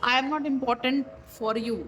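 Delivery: very slow, spaced-out reading; slow card message. Acted. Tarot reader reading the viewer's feeling aloud, very slowly. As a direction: drag each word of the message out.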